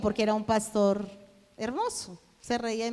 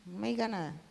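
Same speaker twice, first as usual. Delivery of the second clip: hushing; 12 dB quieter than usual. Retold or imitated. Hushing husband so pastor won't know.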